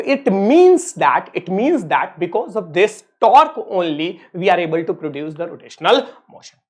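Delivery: each word spaced out slowly for note taking; slow dictation. Acted. Teacher dictating a definition to his students, very slow and spaced. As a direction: read it out very slowly so they can write.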